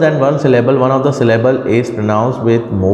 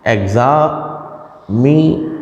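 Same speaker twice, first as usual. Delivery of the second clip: एग्जामी slowly, broken before मी; slow, separated एग्जा, मी; even syllables; much slower than usual. Shown as a demonstration. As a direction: hold एग्जा and मी apart, each drawn out. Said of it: "ये एक ही metre में बोला जाता है".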